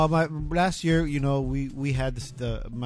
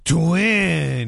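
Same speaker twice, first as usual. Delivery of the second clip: jokey sing-song tag; 3 semitones higher, 6 dB louder than usual. Pretend. Echoing phone number joke.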